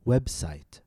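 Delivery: "Website" with WEB stressed, site falling; stress on first noun. Shown as a demonstration. Teacher leading listen and repeat, "Website" stressed on WEB. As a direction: hit "Web", let "site" drop. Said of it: "paying careful attention to syllable stress".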